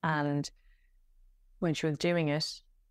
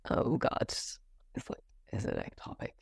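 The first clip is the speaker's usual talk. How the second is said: breathless, whispered dread; whispered fear; 8 semitones lower, 4 dB quieter than usual. Retold or imitated. Asking the sonographer if it is ectopic, in a scared whisper. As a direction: barely get the question out. Fearful question at the ultrasound.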